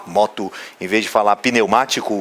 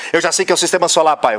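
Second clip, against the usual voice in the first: lightly imitated eager kid, higher and fast; hurried know-it-all son; 4 semitones higher than usual. Son interrupting his father's lesson, mock hurried and cocky. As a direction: cut in quickly like an impatient know-it-all. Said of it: "é muito apressado".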